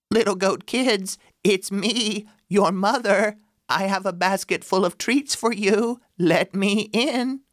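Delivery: wolf faking a high sweet mother voice; softened wolf voice. Acted. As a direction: pitch it up falsely sweet. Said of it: "The chalk softened his voice".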